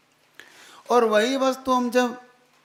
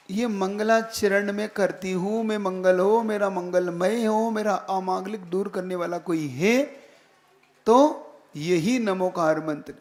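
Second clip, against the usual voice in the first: devotional prayer; 2 semitones lower than usual. Shown as a demonstration. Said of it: "हम उसे मांगलिक मान लें और ये कहें".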